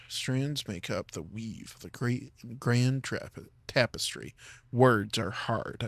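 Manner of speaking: slow, slipping into a Southern US drawl. Real, not acted. Reading game lore to chat, in a slow Southern drawl. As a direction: lore read drawn out in a light Southern drawl. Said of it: "suddenly I'm slipping into a southern drawl".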